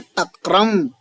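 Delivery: तक्रम ending on a firm nasal m; takram with nasal. Shown as a demonstration. Teacher modelling तक्रम for the class. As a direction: stress the closing m of तक्रम. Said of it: "बोलिए कैसे उच्चारण करना है?".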